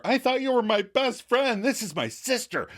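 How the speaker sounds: verbal assault. Retold or imitated. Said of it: "verbal assault on Chandler".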